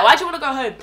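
put-on South African accent, laughing. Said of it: "I can when I hear it".

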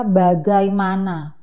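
slowly spelled out, slightly emphatic; drawn-out word. Shown as a demonstration. Dubber showing how long the Indonesian translation is, drawn out. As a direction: stretch it to show its length.

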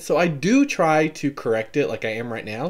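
"correct it" carefully enunciated, accent reined in; enunciated speaking voice. Shown as a demonstration. Vlogger correcting her accent for viewers, carefully enunciated. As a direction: pronounce "right now" carefully, with the southern accent held back. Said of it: "I try to enunciate".

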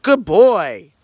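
put-on bright, eager good boy; excited praise. Shown as a demonstration. Dad showing his son how to praise the dog excitedly. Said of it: "you gotta act excited".

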